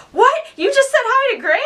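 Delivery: high-pitched, quick incredulous question; mock shocked, pitch leaping up; retold disbelief. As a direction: imitate a friend's astonished double-take.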